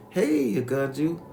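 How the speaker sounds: high, slow, drawn-out hello; called-out greeting. Retold or imitated. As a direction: imitate a woman singing out a greeting to grandma. Greeting re-enacted in performed voice.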